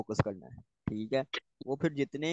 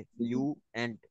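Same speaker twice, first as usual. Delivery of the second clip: syllables drawn out; much slower than usual. Shown as a demonstration. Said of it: "fluent syllable दो हो गए".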